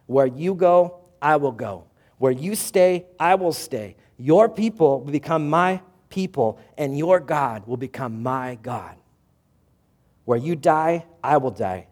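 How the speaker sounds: Ruth's vow read out loud and rising; fervent vow. Acted. Ruth vowing to Naomi, loud and fervent. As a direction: proclaim it like an unbreakable promise.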